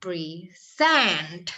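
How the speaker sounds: present, first vowel a thin I. Shown as a demonstration. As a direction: present with a light thin I sound. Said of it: "I tipis, nggak I yang tegas".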